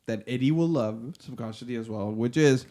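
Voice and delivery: slow, low mock-mystic intoning; a hint of a mystic. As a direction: intone it like a conjurer. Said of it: "conjuring from the deepest depths".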